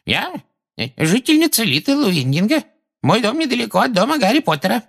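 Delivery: very high, hesitant nervous woman; falter, then answer in a high timid pitch; trembling voice. A narrator's reading. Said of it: "миссис Фигг дрожащим голосом".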